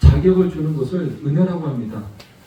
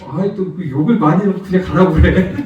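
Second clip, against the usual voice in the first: louder inner grumble with a laugh; 5 dB louder than usual. Retold or imitated. Father grumbling inwardly at the driver, laughing. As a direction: complain to yourself while laughing. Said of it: "속으로는".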